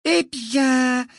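slight smile. A narrator's reading. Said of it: "avec un léger sourire".

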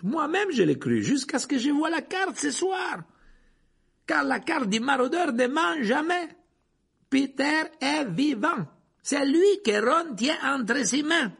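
high, loud, emphatic revelation; Lupin, urgent. A narrator's reading. Lupin reveals that Peter is alive, loud and urgent. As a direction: build to slow, forceful pronouncements.

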